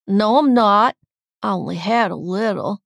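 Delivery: slurred tipsy denial; drunk protest. A narrator's reading. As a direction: protest a little too loudly.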